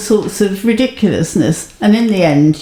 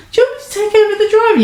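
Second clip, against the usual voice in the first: high-pitched offer; 14 semitones higher, much faster than usual. Retold or imitated. Pointed offer to take over.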